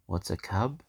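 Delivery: echoing whisper. Retold or imitated. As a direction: whisper the question back. Storyteller echoes child's whisper.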